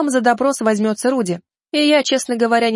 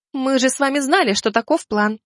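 soothing; 3 semitones higher than usual. Acted. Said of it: "словно пыталась успокоить ребёнка в истерике".

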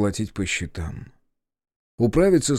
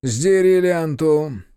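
curt command; 6 semitones higher, 4 dB louder, much slower than usual. A narrator's reading. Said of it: "бросил удаву волк".

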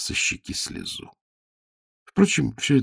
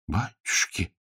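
touched and bewildered; 7 dB quieter, slower than usual. A narrator's reading. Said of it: "растроганно и немного растерянно".

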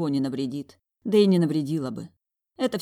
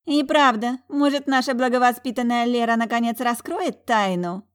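high, louder snide taunt; baring her teeth; 8 semitones higher, 7 dB louder than usual. A narrator's reading. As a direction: sneer at the well-bred sister. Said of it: "оскалилась Юола". (оскалясь, насмешливо и громко)

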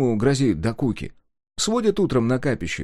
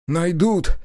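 gasp of fear; 7 semitones higher, 4 dB louder than usual. A narrator's reading. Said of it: "охнул Кудыка".

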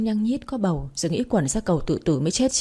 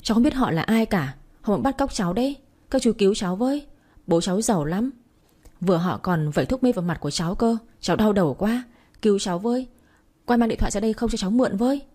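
slightly raised pitch, urgent but contained; mock screaming plea; 2 semitones higher than usual. Girl begging passing men to save her, mock screaming plea. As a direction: plead for help without really shouting. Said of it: "Nó gào toáng lên".

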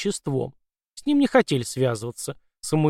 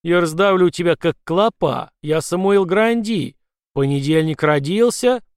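threatening shout; 3 semitones higher, 4 dB louder than usual. Acted. Grandi threatens leprechaun.

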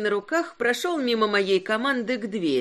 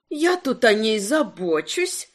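grumbling. Acted. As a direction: grumble it out, slowly. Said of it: "заворчала она".

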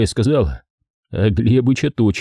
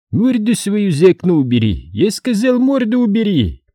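angry order; 10 semitones higher than usual. A narrator's reading. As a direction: bark the order. Сулейман продолжает возмущаться. (злой приказ)

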